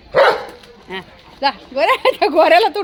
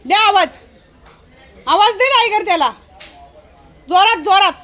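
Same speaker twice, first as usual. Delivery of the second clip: raised, high-pitched urging; urgent calling out; 6 semitones higher, 4 dB louder than usual. Real, not acted. Owner urging someone to call the dog, calling out. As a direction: urge someone across the yard to shout.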